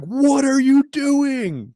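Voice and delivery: high, slow disbelieving cry; baffled crowd. Retold or imitated. Crowd reacts to him pulling guard, high and baffled. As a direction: stretch it out like a stunned crowd. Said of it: "And everyone's like".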